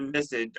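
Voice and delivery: visage said as VIZ-ij; Anglicized visage with a soft j ending; American pronunciation. Shown as a demonstration. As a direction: stress the first syllable of visage. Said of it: "I think Americans pronounce it".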